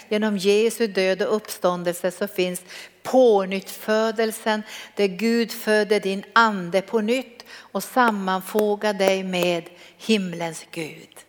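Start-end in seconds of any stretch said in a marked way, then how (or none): 4.9-11.2 tender, slow. Acted. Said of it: "Är det vackert när jag säger det här?".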